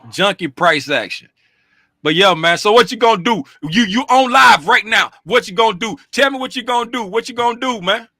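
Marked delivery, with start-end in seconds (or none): 2.6-8.1 pressing loudly. Real, not acted. Pressing friend on live stream.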